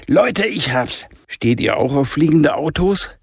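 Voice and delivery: put-on Jonah, a boy with a bright idea, pitched high; eager boy. Jonah hat eine Idee. (begeisterter Junge mit einer Idee)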